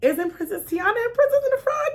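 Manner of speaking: polite nervous question. Retold or imitated. Correcting another mom gently, high and nervous. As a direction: lift the pitch and keep it sweet. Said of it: "I tried not to be rude".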